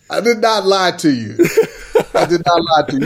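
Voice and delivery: chuckling through the words; laughing denial. Real, not acted. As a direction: laugh it off while protesting.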